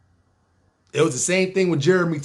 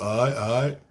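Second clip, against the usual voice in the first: laid-back nineties dude; 3 semitones lower than usual. Retold or imitated. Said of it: "That's how he talk".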